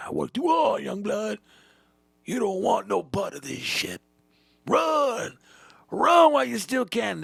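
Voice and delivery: put-on high, loud old-timer outburst; hammed-up desperate shouting; frantic warning. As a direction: yell at the kid to flee. Veteran frantically warns new hire.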